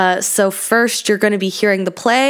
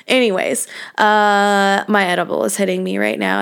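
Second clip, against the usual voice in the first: stoned. Real, not acted. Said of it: "I've started to talk quicker and make less sense".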